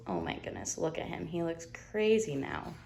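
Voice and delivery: hushed reading aside; quiet aside. Real, not acted. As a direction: lean in and share it softly. Reader aside to kids.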